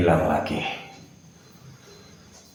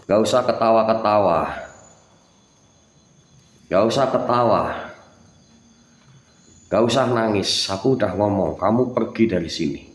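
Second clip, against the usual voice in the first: higher, louder furious rebuke; angry scolding; 4 semitones higher, 4 dB louder than usual. Real, not acted. Ghost hunter scolding a spirit that laughs at him, angry shout. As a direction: bark orders at the laughing ghost.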